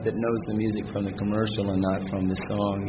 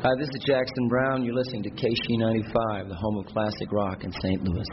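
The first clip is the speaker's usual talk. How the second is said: upbeat station ID announcement; radio promo read. Shown as a demonstration. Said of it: "Okay, another one?".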